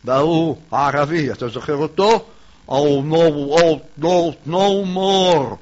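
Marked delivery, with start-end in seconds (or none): 2.7-5.6 put-on Arabic-accented English, louder; English with a heavy Arab accent. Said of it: "זה ערבי מדבר אנגלית".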